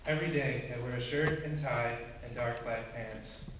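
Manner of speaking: narrative poem read in measured lines; understated storytelling verse; poem recitation. Acted. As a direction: recite evenly, pausing after each image.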